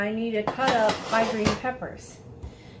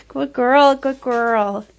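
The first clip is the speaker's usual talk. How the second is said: loud praise for a good dog; squeaky praising a dog; 11 dB louder, slower than usual. Real, not acted.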